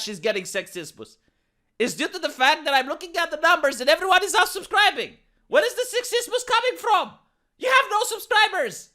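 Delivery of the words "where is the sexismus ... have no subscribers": high, laughing scoff; mocking laugh at a claim of sexism. Real, not acted. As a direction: laugh through the question in disbelief.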